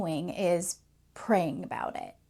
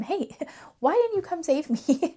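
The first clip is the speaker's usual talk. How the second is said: laughing complaint; 2 semitones higher than usual. Retold or imitated. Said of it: "asks him".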